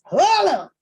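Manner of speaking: high, loud, laughing hold on; fake Cousin Levi voice. Host mocking the cast as Cousin Levi. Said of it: "In the fake Cousin Levi voice".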